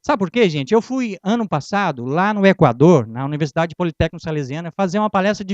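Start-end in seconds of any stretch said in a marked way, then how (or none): none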